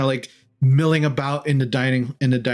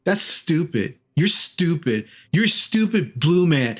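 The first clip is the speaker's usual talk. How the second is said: put-on little boy; 3 semitones higher than usual. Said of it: "he turns around".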